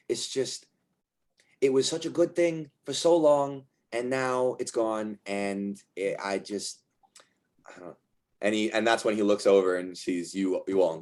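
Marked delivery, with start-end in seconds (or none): 0.1-8.0 upset lament. Acted. Rick acted lamenting the loss.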